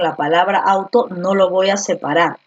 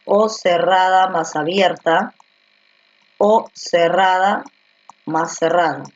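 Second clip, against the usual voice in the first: slow dictation. Shown as a demonstration. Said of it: "la combinación del diptongo es".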